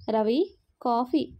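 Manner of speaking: slow, drawn-out tired call; weary and heavy. Acted. Heavily pregnant wife bringing husband coffee, slow and weary. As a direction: drag the words out slowly, worn out. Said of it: "భారంగా నడుస్తూ".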